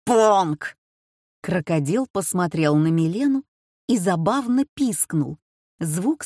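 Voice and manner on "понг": loud call of the name; husband calling for Pong again. A narrator's reading. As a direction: shout across the house.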